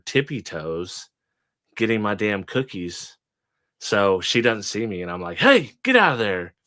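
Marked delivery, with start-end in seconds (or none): 5.4-6.5 raised, louder startling shout; imitated scolding call. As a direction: call out as if catching a thief. Retold catching cookie thief.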